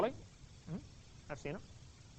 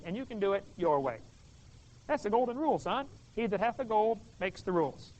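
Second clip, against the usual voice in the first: stern dad. Retold or imitated. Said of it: "And Dad says".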